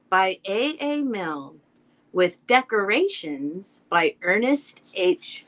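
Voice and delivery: slow, measured title-page reading; story title read-aloud. Acted. Reader to kids opening the book, measured read-aloud. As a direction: read out the book's title page, spacing each phrase.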